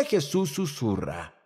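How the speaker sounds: soft, slowed-down delivery; lightly hushed, toward a whisper. Shown as a demonstration. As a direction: let the voice drop and slow.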